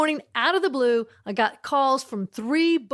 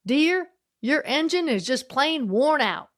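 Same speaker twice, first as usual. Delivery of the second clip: slow, sweet Southern drawl, lightly done; a kind Southern lady breaking bad news gently, slowly; nice Southern accent; 3 semitones higher, slower than usual. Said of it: "in the nicest Southern accent".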